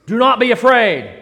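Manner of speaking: loud, clear angel. Acted. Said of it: "really clearly and really loudly. The angel speaks out".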